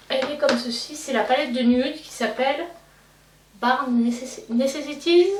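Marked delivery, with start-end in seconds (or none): 3.6-5.3 hesitant attempt at English in a francophone accent; poor English accent. Real, not acted. Vlogger reading out an English palette name, poor English accent. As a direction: stumble through English with a French-speaking accent, pitch rising. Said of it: "excusez-moi pour mon accent anglais".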